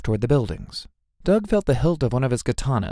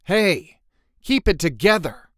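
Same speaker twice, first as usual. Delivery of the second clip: raised, high urging; sharp scolding; 7 semitones higher, 4 dB louder, slower than usual. A narrator's reading. Bryce telling crying Doug to pull himself together, scolding. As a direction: jolt a friend out of it, high and firm.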